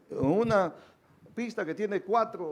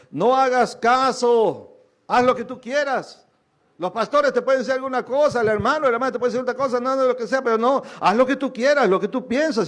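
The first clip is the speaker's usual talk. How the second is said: tempting voice; 5 semitones higher, 6 dB louder than usual. Retold or imitated.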